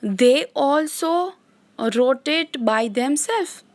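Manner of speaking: very slow, word-by-word reading of notes; dictation. Shown as a demonstration. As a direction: read it out slowly for students to copy. Teacher dictating English notes. (धीमे-धीमे बोलकर लिखवाना)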